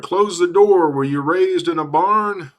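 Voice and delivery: lightly hammed-up shout at the guest; hollered. Dad hollering at Santa to close the door, a mild mock holler. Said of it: "Dad hollered".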